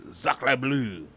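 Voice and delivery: lightly put-on French accent. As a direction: exclaim it with a mock French accent. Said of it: "I was doing a French accent".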